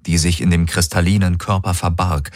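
usual speaking voice

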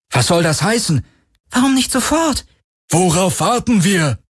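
high, indignant outcries; agitated protest. A narrator's reading. Angry Terrans protest the delay aboard, agitated outcry. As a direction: demand answers, pitch leaping up. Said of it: "die Terraner weiterhin durcheinander brüllten".

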